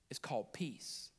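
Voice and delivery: breathy whispered reveal. Acted. Pastor revealing the meaning of peace, whispered. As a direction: let the word peace drop to a whisper. Hushed reveal of the key word.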